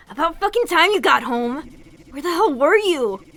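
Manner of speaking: angry confrontation. Acted. Kroven confronting Mary about coming home late, angry.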